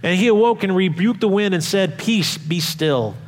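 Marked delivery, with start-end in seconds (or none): 2.0-3.1 slow, hushed, steady command; slow it right down to still the storm; calm command. Retold or imitated. Jesus calms the storm.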